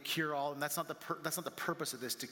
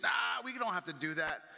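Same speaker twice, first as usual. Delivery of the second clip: dismissive; 3 dB louder than usual. Acted. Disciple answers the idea of waking Jesus, dismissive. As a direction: wave the suggestion away.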